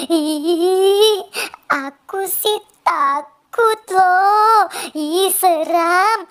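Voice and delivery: slow, frightened little voice with a shaky laugh; a child spooked by the rain, half laughing; scared whimper. Acted. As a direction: shrink into the fear of the dark, drawing out each word. Child scared of dark rainy night.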